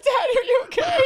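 put-on very high child voice; imitated worried kids. Kids checking on their screaming dad, imitated worry. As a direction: mimic a crying, worried little kid. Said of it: "My kids come out like".

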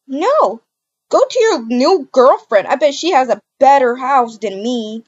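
loud bitter yelling; angry dismissal. Acted. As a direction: send him off scornfully. Girlfriend yells him away.

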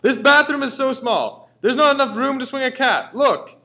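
high, loud, slow frantic shout; shrieking complaint from the bathroom; screaming. Acted. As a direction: yell it in outrage, dragging it out. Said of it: "we heard him screaming".

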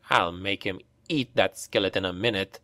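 low, soft growl. A narrator's reading. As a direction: threaten it through a growl. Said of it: "growled Hals".

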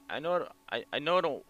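high, rising loud, breaking with distress; fighting through tears to explain; distraught pleading. Acted.

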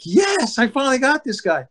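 high, exultant cheer; inner triumph. Retold or imitated. Pitcher telling how he finally struck his nemesis out, exultant.

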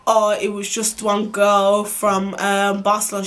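halting, drawn-out mock excuse; slow, hesitant retelling of his excuse; stammering excuse. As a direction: imitate him stalling for words, very slowly. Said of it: "bear stuttering".

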